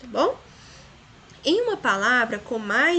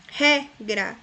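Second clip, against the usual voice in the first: regra louder, RE-gra with the syllables apart; stress on first syllable; 5 dB louder than usual. Shown as a demonstration. Teacher giving an example, regra stressed on re. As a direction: hit the re of regra. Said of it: "a mais forte".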